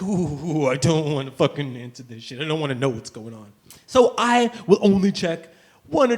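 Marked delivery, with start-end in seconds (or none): 0.0-3.5 dread of calls. Retold or imitated. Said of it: "I'm just like".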